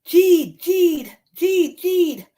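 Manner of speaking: high, falling little squeaks; high-pitched mouse calls; mouse squeaking. Acted. Voices the mouse in story.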